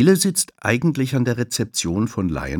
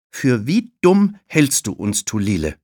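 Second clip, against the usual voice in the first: indignant; 5 semitones higher, 5 dB louder than usual. Acted. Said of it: "fragt Emma".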